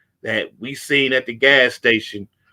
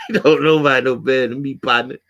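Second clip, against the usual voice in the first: laughing through the words; amused laughing repeat. Real, not acted. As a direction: chuckle while repeating it.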